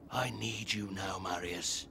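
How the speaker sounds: urgent low whisper. Acted. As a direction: lean in and breathe it. Private plea before rallying.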